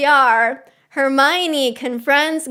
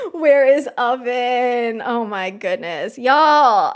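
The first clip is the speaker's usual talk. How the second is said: ordinary talk, nothing marked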